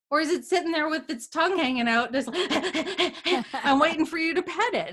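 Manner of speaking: amused, laughing as she pictures the dog; a friendly dog picture told with laughter; laughing through it. Retold or imitated. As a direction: giggle through the words. Mocking the fear, laughing.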